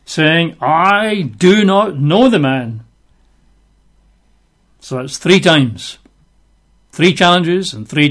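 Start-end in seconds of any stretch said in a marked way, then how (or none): 0.6-2.8 slow, higher-pitched emphatic denial; acted sworn denial. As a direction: draw out each word in mock protest. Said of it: "he began to curse".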